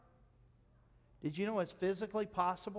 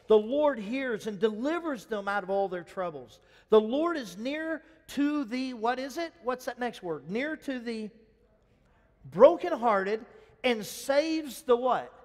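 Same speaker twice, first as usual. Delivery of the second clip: preaching the verse; 5 semitones higher, 9 dB louder than usual. Acted. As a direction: proclaim the scripture, drawing it out. Reads verse, preaching loud.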